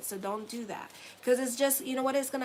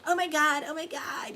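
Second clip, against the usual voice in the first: lightly mocked freak-out, higher at first; mock alarm at a small thing; mock oversensitive person; 5 semitones higher, 3 dB louder than usual. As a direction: imitate someone overreacting, a touch dramatic. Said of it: "some people are so sensitive nowadays".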